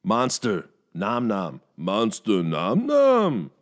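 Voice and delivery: loud, greedy monster chant; King Shark impression. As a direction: chomp the words like a hungry shark man. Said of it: "King Shark".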